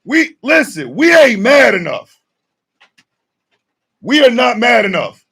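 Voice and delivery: fired-up rant shout; rallying shout. Real, not acted. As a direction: stir up the crowd.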